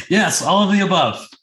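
high, laughing through the words; laughing self-mockery. Real, not acted. Mocking himself to the podcast host, laughing. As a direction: laugh at yourself while admitting it.

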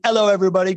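"Hello" said as "'ello"; dropped H. Shown as a demonstration. Host reading a viewer's roll-call greeting, "Hello" without H. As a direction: start "Hello" on the vowel, no H. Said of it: "not gonna pronounce a single H".

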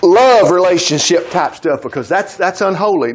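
mock prudish voice. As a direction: poke fun at the prudes as you say it. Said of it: "we tried to make it look like".

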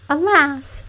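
high-pitched princess's lament. A narrator's reading. Princess after a fruitless search, lamenting.

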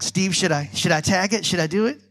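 a nervous fish asking his friend's permission; hesitant fish. Retold or imitated. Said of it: "And Jerry's like".

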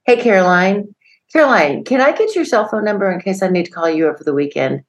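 a hint of bossy child; imitated cheeky kindergartner. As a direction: lightly play a forward five-year-old addressing his teacher. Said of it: "he would say".

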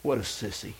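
put-on soft, small feeble child voice; a hint of a sleepy little boy; weak child voice. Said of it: "in his weak, feebly voice".

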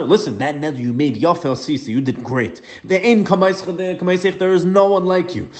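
high, eager praise that keeps climbing; husband warmly praising his wife's vow. Retold or imitated. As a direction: gush over her vow like a proud husband. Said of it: "He tells her".

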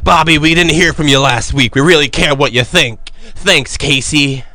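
lightly put-on announcer voice, slowing at the end; announcer-like accent. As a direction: read it out a bit like a wrestling announcer. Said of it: "What accent are you doing right now?".

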